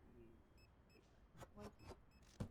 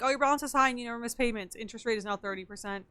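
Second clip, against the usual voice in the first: mock card company; faster than usual. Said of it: "They're like".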